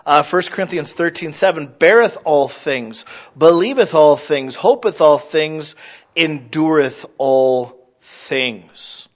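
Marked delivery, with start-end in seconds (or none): 1.7-9.1 slow, measured King James recitation; solemn scripture reading. Shown as a demonstration. Preacher reciting First Corinthians, slow and solemn. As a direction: intone each line slowly.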